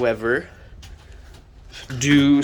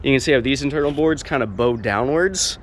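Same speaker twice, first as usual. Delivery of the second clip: up a ladder; 2 semitones higher, 3 dB louder than usual. Real, not acted. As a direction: still up on a ladder, talking. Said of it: "sorry, I'm on a ladder".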